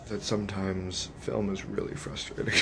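subdued frustration. Real, not acted. Confiding frustration after a hard shoot.

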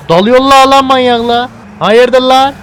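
loud, high startled shout; alarmed yell. Real, not acted. Gamer yelling as gangsters charge him. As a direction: shout as they charge at you. Gang attacks, he yells.

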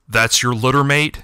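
a sneering, ominous hiss. Acted. Shadow cat sizing up the brother, an ominous hiss. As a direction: hiss it with contempt. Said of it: "hissed the ominous voice".

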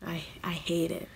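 whispered aside, breathy and hushed. Real, not acted. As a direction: drop to a secret whisper. Confessing she hates her major.

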